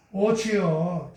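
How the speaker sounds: very slow, stretched-out cry of "오 주여"; drawn-out plea. Acted. Moses begging God, slow drawn-out plea. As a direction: drag out the plea to the Lord.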